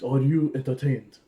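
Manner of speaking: slowed mock Japanese accent; deliberate imitation of a Japanese accent. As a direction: put on a light Japanese accent, drawn out. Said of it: "It's a Japanese".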